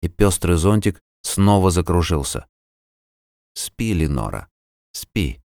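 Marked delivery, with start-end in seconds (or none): 3.5-5.4 soft lulling. Acted. Olli lulls her to sleep.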